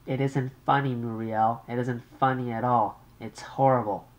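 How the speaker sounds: an anxious mother on the line. Acted.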